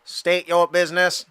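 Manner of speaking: clipped mechanical droid voice; battle droid voice. Acted. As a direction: state it like a droid. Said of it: "Oh, there you go. I can do that".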